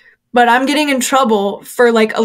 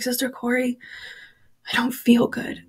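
put-on small sick child voice; 3 semitones higher, 10 dB quieter than usual. Sick little boy whispers to Corey.

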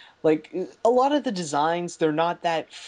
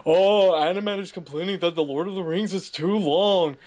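mock complaint. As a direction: parody a scoffing viewer. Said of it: "I know what you're thinking".

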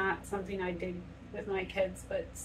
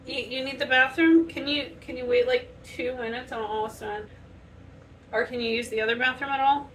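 calling out; 3 semitones higher, 4 dB louder than usual. Real, not acted. Asking kid about the bathroom.

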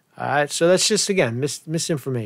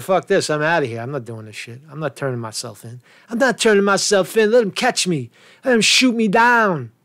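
put-on defiant kid. Host imagining the runaway kid refusing to surrender, mock defiance. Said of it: "The kid said".

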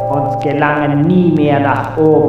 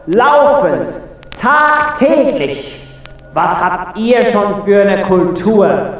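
high, scornful theatrical tirade; indignant scolding. Acted. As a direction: berate the human with raised pitch. Indignant ruler berates the human. (empörte, theatralische Standpauke)

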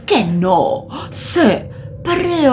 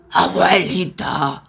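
menacing wolf; 4 semitones lower than usual. Acted. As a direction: draw out the threat like a hungry wolf. Wolf threatens grandma.

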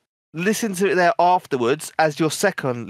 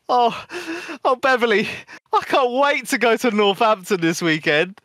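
raised, chatty stranger showing off; broadcast it to the whole queue; 5 semitones higher than usual. Retold or imitated. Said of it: "This guy's like".

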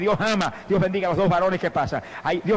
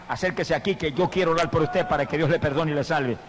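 ordinary talk

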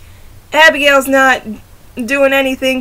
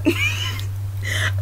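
whispered giggle; 9 dB quieter than usual. Real, not acted. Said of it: "I cannot believe I just said that".

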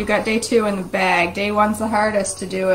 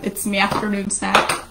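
light demo of an Irish accent; mild Irish brogue on "me". Shown as a demonstration. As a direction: read it with a hint of Irish lilt. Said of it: "reads it in an Irish accent".

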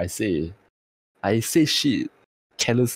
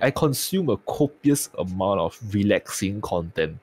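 sounds worn out and tired. Real, not acted. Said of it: "you think I sound tired? I actually am".

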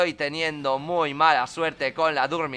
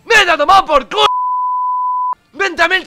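loud, high-pitched furious yelling; raging shout; 11 semitones higher, 10 dB louder than usual. Real, not acted. Gamer yelling at his sleeping Pokémon, raging shout. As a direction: explode in real frustration at the game.

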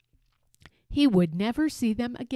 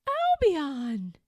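calling out; 5 semitones higher than usual. Acted. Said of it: "he cried".

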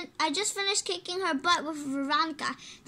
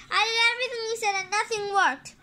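high-pitched frustrated outburst; fed-up kid's protest; frustrated complaint; 4 semitones higher, faster than usual. Acted. Frustrated kid complains in story.

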